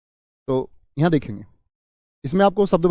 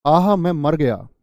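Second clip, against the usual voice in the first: दुख; 4 dB louder, slower than usual. Shown as a demonstration. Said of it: "ऐसे".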